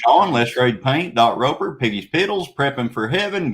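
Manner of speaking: fast auctioneer patter. Acted. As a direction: rattle off names like an auctioneer. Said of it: "I don't think I've ever heard you talk that fast before".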